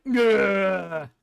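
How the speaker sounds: villain growl. Acted. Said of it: "has a growling".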